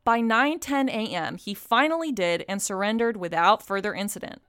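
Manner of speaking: steady, measured newsreader delivery; news read. Acted. Co-host reading a police report to the guest, even news read. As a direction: read it out like a local crime report.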